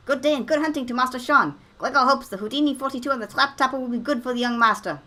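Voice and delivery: high, loud servile butler; fawning old servant. Acted. Voicing Gregor again.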